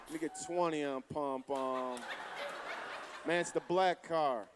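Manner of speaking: low, slow, spaced-out stoner at the counter; dazed stoner buying gas; stoned customer. Retold or imitated. Stoned guy at gas station.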